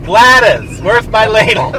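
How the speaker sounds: put-on high, loud old lady on the phone. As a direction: really ham up the old lady. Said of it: "'Cause I'm an old lady".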